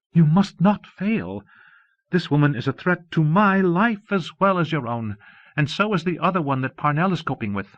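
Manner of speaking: a looming voice that owns the room; menacing overlord. Acted. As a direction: lay down the law as a cold mastermind. Fury's commanding telepathic voice.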